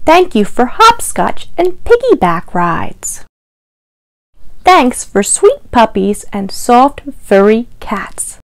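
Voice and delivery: gentle picture-book read-aloud, each line set apart; reading to children. Acted. Librarian reading a Thanksgiving book to children, sing-song read-aloud. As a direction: lilt through the rhymes for little listeners.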